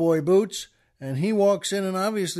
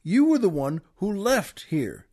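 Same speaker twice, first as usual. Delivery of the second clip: curious Texan; 3 semitones higher than usual. Retold or imitated. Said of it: "the Texan then says".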